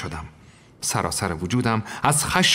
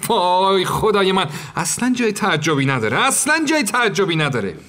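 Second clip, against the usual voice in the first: shocked; 6 semitones higher than usual. Acted. Narrator shocked and indignant.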